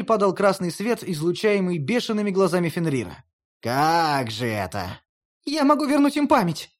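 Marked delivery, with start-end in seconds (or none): 3.6-5.0 slow, low, suspicious wolf; wary wolf. Acted. 5.4-6.7 high, urgent, stress on могу; Hel insisting, high. A narrator's reading. Hel repeats louder.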